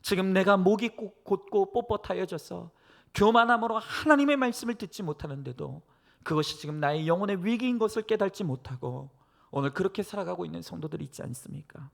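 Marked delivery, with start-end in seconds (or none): none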